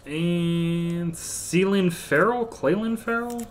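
"Clelin Ferrell" high, rising as a question; questioning the name. Real, not acted. Card breaker unsure of "Clelin Ferrell", high questioning rise. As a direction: draw out the lead-in, then lift "Ferrell" high, unsure.

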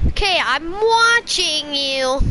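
slow, drawn-out creepy "I'm watching you"; creepy watcher. Pretend. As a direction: linger on every word like a lurking stalker. Creepy slow stalker lines.

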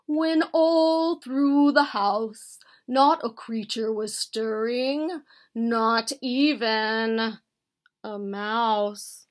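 emphatic verse recitation; pronouncing. A narrator's reading. Bear reciting pointedly to little Mouse, in declaiming style. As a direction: declaim the poem, leaning on the words. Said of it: "Bear pronounced".

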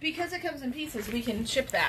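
put-on soft little old lady voice; quiet granny being clever; grandma voice. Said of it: "You like my grandma voice?".

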